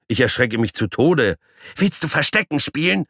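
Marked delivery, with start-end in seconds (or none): 1.8-3.1 high squeaky yell; shrill little critter shouting; yelling guinea pig. Acted. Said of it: "brüllt etwas in mein linkes Ohr".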